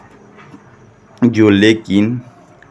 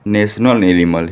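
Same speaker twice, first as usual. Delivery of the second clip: slow, word-by-word read-out; slow model reading; much slower than usual. Shown as a demonstration. Teacher shows pupils how to read the sentence, slow model reading. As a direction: read it slowly for learners to repeat. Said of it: "कैसे पढ़ेंगे?".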